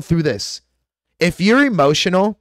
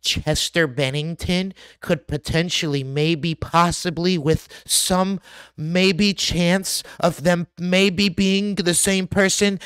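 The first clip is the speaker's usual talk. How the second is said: softer, hesitant mock hedging, slow on maybe; mock wishy-washy hedging; 5 dB quieter than usual. Mocking cautious YouTubers, soft and slow with hedges. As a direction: parody a timid video maker who won't commit. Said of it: "I'm not gonna sit here making a video".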